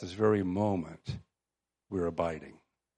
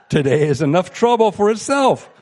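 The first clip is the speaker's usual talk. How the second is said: scripture read through laughter, higher and louder; laughing; 8 semitones higher, 9 dB louder than usual. Real, not acted. Preacher laughing as she reads the verse.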